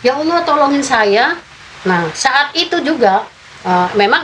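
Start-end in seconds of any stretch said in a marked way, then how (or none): 0.0-1.3 retold scream. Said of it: "saya menjerit lagi tuh".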